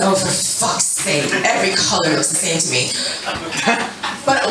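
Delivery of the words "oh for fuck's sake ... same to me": exasperated thought. Retold or imitated. Salon worker privately reacting to customer's color question, exasperated. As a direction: grumble it low, fed up. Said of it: "And I'm thinking".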